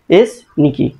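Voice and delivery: "এস", brief break, then "নিকি"; said in separate parts. Shown as a demonstration. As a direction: split it into two pieces, "এস" and "নিকি". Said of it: "আলাদা আলাদা উচ্চারণ করি".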